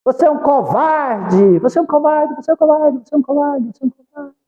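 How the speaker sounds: the mountain throws it back; child's insult echoed back; echoing voice. Retold or imitated. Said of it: "A voz".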